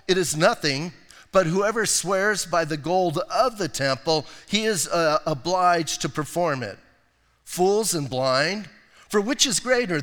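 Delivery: solemn pulpit reading; scripture reading. Acted. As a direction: read it like a proclamation. Reads Matthew 23 aloud.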